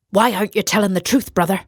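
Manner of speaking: a hint of a probing Irishman; Irish accent. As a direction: press the question in a quick Irish lilt. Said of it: "His Irish accent bewildered Kalin".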